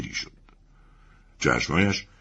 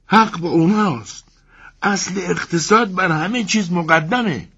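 calm tone; 12 semitones higher than usual. Acted. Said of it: "با لحن آرامی گفت".

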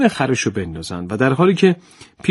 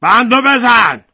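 firm order; 8 semitones higher, 6 dB louder, slower than usual. Acted. Farmer ordering.

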